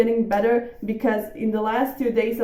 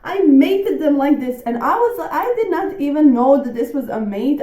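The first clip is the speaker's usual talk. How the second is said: excited; 3 semitones higher, 6 dB louder than usual. Real, not acted. Surprise checkmate win.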